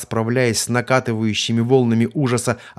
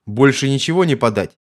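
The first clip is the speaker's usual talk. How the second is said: louder, higher mocking guard voice; jeering guard; 4 semitones higher, 5 dB louder than usual. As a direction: sneer at the prisoner.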